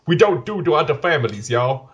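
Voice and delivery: lightly voiced Italian American mobster; a hint of a Mafia accent. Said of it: "I can't do a Mafia accent".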